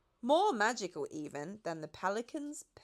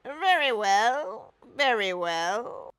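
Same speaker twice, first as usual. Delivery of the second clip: muttering; 4 semitones higher, 9 dB louder, much slower than usual. A narrator's reading. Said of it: "the Duke muttered".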